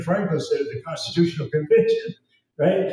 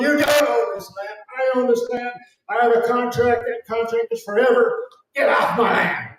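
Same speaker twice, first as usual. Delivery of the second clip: defiant; 6 semitones higher than usual. Pretend. Telling them to confront officials.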